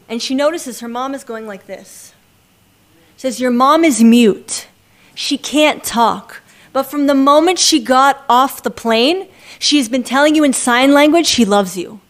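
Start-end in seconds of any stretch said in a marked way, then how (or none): 3.4-12.0 slow, loud, weighty revelation; emphatic explaining. Retold or imitated. Girl to crying daughter about her mute mother, emphatic. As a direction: spell it out slowly and forcefully.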